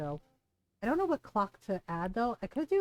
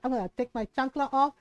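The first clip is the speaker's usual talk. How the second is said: quick, higher, louder motherly threat; imitating mad mom; 4 semitones higher, 5 dB louder, faster than usual. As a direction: play a mom warning of a spanking, mock anger. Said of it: "She was so mad".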